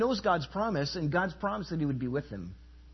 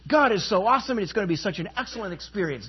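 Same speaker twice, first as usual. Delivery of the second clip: higher and fast, gushing with naive excitement; mock starry-eyed enthusiasm; 4 semitones higher, faster than usual. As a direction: play the dazzled new leader who thinks it will be easy. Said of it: "You say".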